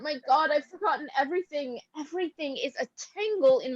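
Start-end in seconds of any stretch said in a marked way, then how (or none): 0.0-1.8 weeping. Acted. Irina weeps over lost memory.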